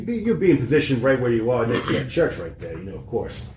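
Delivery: put-on light Boston accent, tough investigator; lightly voiced Boston tough guy. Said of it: "keep doing the Boston accent".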